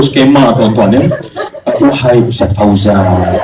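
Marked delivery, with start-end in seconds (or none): 1.8-3.4 slow, stately formal call with a laugh; formal classical address. Shown as a demonstration. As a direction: address him like classical Arabic, slowly. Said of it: "level bahasa klasik memang tinggi". (panggilan formal klasik yang pelan sambil tertawa)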